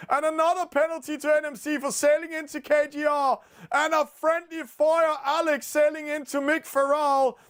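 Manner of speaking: high-pitched excited play-by-play; excited commentary. Real, not acted. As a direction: call the sudden penalties like a thrilled commentator. Penalties erupt in close race.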